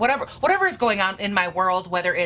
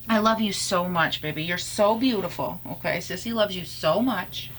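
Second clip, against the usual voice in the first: sweet nothings. Real, not acted. Talking lovingly to pet.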